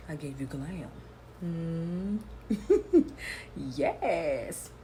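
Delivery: sassy diva posing for camera; sassy drag queen. Acted. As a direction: strut it, all attitude.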